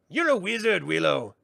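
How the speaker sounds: high, brisk sprite voice; teasing brownie. Acted. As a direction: chide him cheerfully. Brownie Rule chides.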